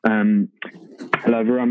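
a hint of a Johannesburg South African accent on the greeting; light South African accent. A friend asked to do his South African accent, light South African accent. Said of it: "So you give them the South African accent".

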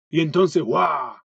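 "¡guau!" de golpe, para asustar; un grito juguetón de cuento de terror; susto fingido. Acted. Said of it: "intentó asustarla Elvira". (Elvira asusta a Mar con un ¡guau!)

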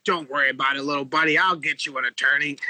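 a hint of a condescending record exec; imitating Jerry. Jerry Heller reassuring the kid.

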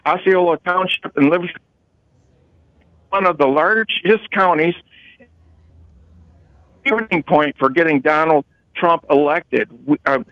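choppy phone line; words cutting out; radio breaking up. Real, not acted. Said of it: "Mark is breaking up".

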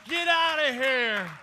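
loud, high command to clear out; yelled order. Retold or imitated. Preacher as Jesus driving out the money changers, yelled order. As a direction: throw them out with a preacher's yell. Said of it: "he yells at 'em and he says".

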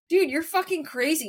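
high-pitched retold telling-off; mock angry. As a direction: imitate an exasperated friend scolding you. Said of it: "he got so mad at me".

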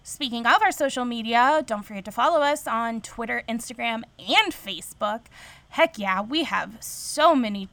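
lightly hyped ad announcer. Shown as a demonstration. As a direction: read it like a radio ad. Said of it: "You have a very good announcer voice".

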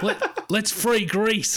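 drawn-out, high mock-British film hero; slow, hammed-up attempt at a British accent; bad British accent impression. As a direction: imitate an Australian straining at a British accent. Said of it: "You sound like Russell Crowe trying to do a British accent".

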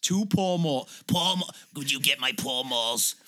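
mock-bossy call for cigarettes; mock Doris demanding. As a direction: bark it like a bossy old director. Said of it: "pretend to be Doris".

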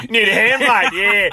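high, loud, cheeky offer of help; cocky offer to the truck driver, mock-chipper. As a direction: chirp it at the trucker like a know-it-all.

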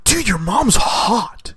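high, slow dude voice; exaggerated drawn-out character voice; Napoleon Dynamite. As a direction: stretch it out like a dopey teen. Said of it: "Napoleon Dynamite".

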